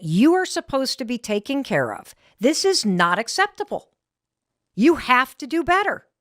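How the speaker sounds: a husband's stern telling-off, mimicked; retold angry scolding. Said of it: "and he said".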